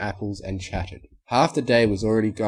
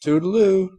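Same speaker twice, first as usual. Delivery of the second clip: much higher, loud singsong toodaloo; echoed toodaloo; 11 semitones higher, 9 dB louder than usual. A narrator's reading. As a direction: chirp it back sweetly. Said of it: "they both echoed once more".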